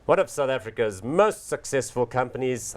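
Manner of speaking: booming ring-announcer build-up; boxing announcer. Acted. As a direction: announce it like a prizefight intro. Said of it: "I sound like a boxing announcer".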